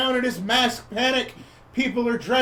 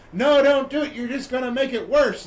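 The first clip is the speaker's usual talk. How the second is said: alarmed protest; 5 semitones higher than usual. Retold or imitated. Lady from out of town objects to spraying, alarmed protest. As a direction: act out an urgent objection.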